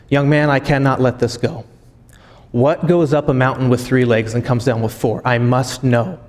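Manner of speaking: imitating a stumped man desperate for the answer; mock exasperation. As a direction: insist on knowing, mildly exasperated. Stumped Einstein demands the answer.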